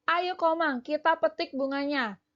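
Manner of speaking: a hint of a child urging her friend; lightly voiced Lani. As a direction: coax a friend into picking flowers. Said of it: "diucapkan oleh Lani dan Komang".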